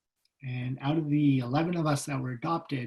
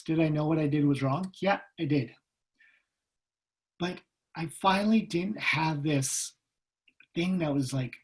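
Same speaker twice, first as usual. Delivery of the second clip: ordinary delivery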